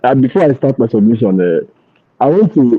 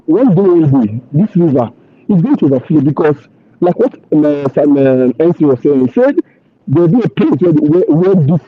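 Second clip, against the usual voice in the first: muffled, like a hand over mouth; dull, muffled speech; 2 semitones higher than usual. Real, not acted. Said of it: "Your voice is so muffled".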